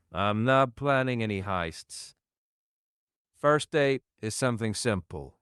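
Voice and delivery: lightly played New York mobster; New York mobster accent. AI answers streamer's date question, mild New York mobster accent. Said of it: "most stereotypical, like, New York mobster accent".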